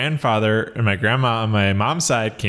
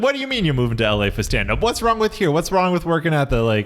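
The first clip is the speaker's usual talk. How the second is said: indignant, higher-pitched Long Island voice; Long Island accent; 3 semitones higher than usual. Acted. Imitating Long Island locals doubting a move to LA, Long Island accent. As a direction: challenge them like an affronted Long Islander. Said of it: "In that Long Island voice".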